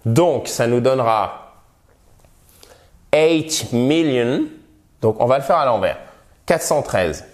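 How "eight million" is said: eight million said slowly, eight as English "ate"; slow model eight million. Shown as a demonstration. Teacher models "eight million" for French learners, slow and clear. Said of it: "teacher models English number".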